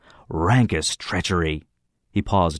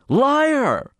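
higher sharp "Liar!"; glowering accusation; 3 dB louder than usual. A narrator's reading. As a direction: throw the word at him. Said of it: "Brinker glowered at me".

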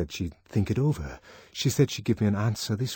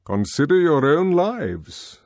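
stately controller; 8 semitones higher, 7 dB louder, slower than usual. Acted. Mustapha Mond addressing the boys.

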